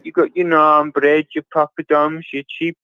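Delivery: exaggerated Birmingham accent; Brummie accent. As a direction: list it like a proud Brummie. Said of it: "all Brummies sound like that".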